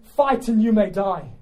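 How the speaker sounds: commander's reply, falling off at the end; William Wallace. Acted. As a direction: answer the doubters with slow weight.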